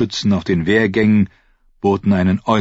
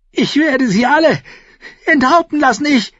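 high, loud, worked-up threats; agitated ranting; 4 dB louder than usual. A narrator's reading. Young king vowing beheadings after the riot, agitated. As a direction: rant at a high pitch, beside yourself. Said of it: "stammelte Joffrey aufgeregt".

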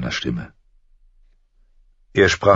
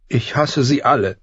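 put-on girl's voice, higher, confiding through sniffles; sniffling confession; 9 semitones higher than usual. A narrator's reading. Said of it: "vertraute Arya ihm an". (schniefend anvertraut)

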